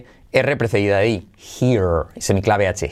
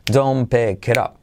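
DON'T PICK IT UP in even, chanted beats; "don't pick it up" drilled rhythmically; rhythmic drill. Shown as a demonstration. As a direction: say "don't pick it up" to a steady beat. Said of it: "Repítelo con ritmo".

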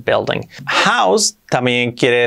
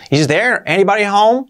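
calling out; 9 semitones higher than usual. Shown as a demonstration. Calling into a house.

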